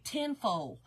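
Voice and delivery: "tinfoil" with a Southern "foil"; Southern pronunciation. Shown as a demonstration. Gives the other name, Southern way.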